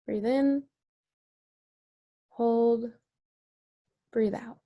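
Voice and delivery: calm counted cue for the group; guided breathing cue. Shown as a demonstration. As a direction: lead the breath in, hold and out. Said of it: "So let's all try to do this together".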